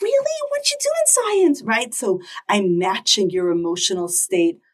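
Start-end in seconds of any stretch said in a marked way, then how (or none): 0.0-1.6 animated, swooping, very high, fast, excited. Demonstrating a parent answering a child's excited news: excited response. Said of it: "so I'm responding with excitement".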